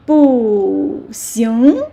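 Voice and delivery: loud falling 不, then rising 行; falling tone kept. Shown as a demonstration. Teacher shows 不 before rising tone, still falling. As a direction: drop on 不, lift 行. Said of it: "Still falling tone".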